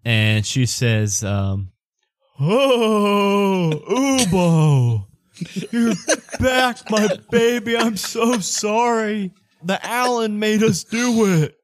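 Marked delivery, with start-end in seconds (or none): 2.4-11.5 high, drawn-out wailing mother; annoying mama voice. Acted. Ubo's mama waking and apologizing to her baby, high and annoying. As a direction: wail apologetically in a silly high falsetto. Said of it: "is that the new annoying voice?".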